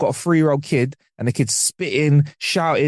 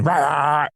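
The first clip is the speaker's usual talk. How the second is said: mock toddler growl; imitated growling; slower than usual. Toddler growling at someone through a fence, imitated growl. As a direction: growl the syllables like a dog. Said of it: "if my toddler was growling at you".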